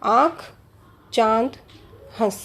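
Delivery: आँख, चांद, हंस each separate, vowel through the nose; nasalised vowels. Shown as a demonstration. Teacher recapping nasal sound examples, nasalised vowels. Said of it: "अनुनासिक ध्वनियों में कौन सी हैं".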